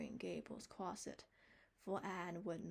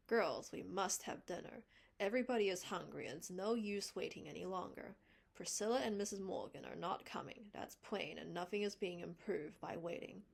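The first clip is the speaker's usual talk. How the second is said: firm announcement; 5 dB louder than usual. Acted. Marilla firmly announces dinner.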